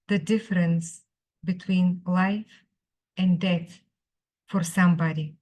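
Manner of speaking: measured recital, long pauses between phrases; poetry reading. Acted. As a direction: read it as verse, phrase by phrase. Reads the poem in English.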